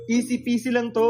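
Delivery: a hint of recipe-video presenter; voice-over. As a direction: pitch it up like a cooking voice-over. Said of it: "Wow, may pa-voice over na siya".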